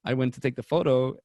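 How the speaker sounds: usual speaking voice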